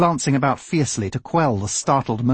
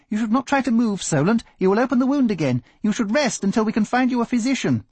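higher, hurried, lightly voiced fretting doctor; a hint of a worried doctor chasing his patient; fussing doctor; 10 semitones higher, faster than usual. Doctor hurrying after the wounded man, mildly fretful and higher.

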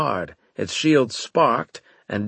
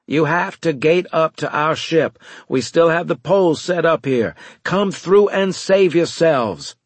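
loud, raised, insistent appeal; urgent plea; 7 semitones higher, 5 dB louder than usual. A narrator's reading. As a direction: urge them to escape, high and forceful. Urgent plea over failing comms link.

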